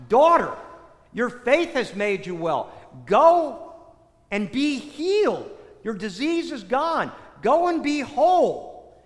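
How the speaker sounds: preached as Jesus granting healing, key words pushed out; emphatic pronouncement. Retold or imitated. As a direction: declare it with ringing emphasis. Preacher voices Jesus healing the woman.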